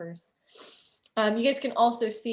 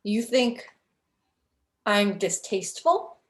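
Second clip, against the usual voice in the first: offended scowl. Acted. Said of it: "he scowls at you and he says".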